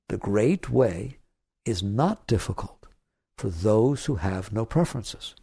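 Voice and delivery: slow, solemn recitation; reciting a scripture. Shown as a demonstration. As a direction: read it like a sacred text. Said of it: "One of the greatest writings".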